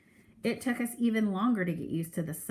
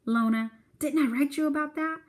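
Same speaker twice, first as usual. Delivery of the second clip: put-on higher old Southern lady voice; grandma voice; 8 semitones higher, 3 dB louder than usual. Grandma Sands answering Mama's gossip question, higher old lady voice. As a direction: play a teasing grandmother.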